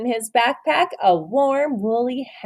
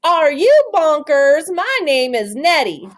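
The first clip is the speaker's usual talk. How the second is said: mock angry howl; 5 semitones higher, 5 dB louder than usual. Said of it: "with a horrible howl".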